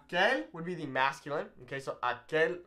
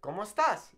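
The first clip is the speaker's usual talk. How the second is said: "estás" as es-TÁS, higher on the end; stress on final syllable; 6 semitones higher than usual. Shown as a demonstration. Teacher contrasting with the greeting, "estás" stressed on TÁS. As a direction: lean hard on the TÁS of "estás". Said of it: "It's not".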